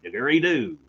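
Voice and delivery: Mel Gibson going Australian in jest; hammed-up Aussie accent. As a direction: put on a joking Australian accent. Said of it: "Drop the American accent".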